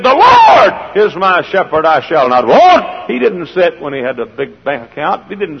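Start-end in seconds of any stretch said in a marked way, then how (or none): 0.0-3.1 proclaimed loudly. Acted. David's words proclaimed.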